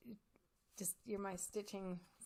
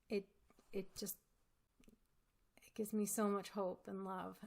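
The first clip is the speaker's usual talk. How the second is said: moved whisper. Real, not acted. Moved by gift, thanking viewers.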